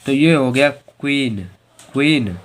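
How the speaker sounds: क्वीन said "kween" with a W glide; model pronunciation. Shown as a demonstration. Teacher spells, then says क्वीन. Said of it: "देखो Q U double E N".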